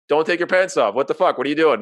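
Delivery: alarmed retold yell. Teen telling the girl to keep her pants on, alarmed retold yell. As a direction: blurt it out like you're caught off guard.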